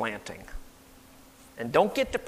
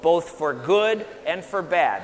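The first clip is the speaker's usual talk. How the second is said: slow, measured model for repeating; slow phrase for repeating; 2 semitones lower than usual. Shown as a demonstration. Preacher leading the congregation in repeating, slow and measured. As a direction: give each part slowly for them to echo. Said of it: "Say that".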